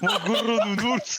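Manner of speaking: slow, high doting mother. Acted.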